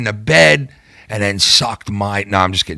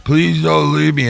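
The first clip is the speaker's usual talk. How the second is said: put-on drunken pleading again; 3 semitones higher, slower than usual. Sick drunk repeats his plea to friends, drawn out. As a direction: beg them once more not to go.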